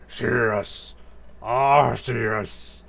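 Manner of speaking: drawn-out mock monster voice, lightly done; Dialga brooding on a name. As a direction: stretch the name like a stirring beast.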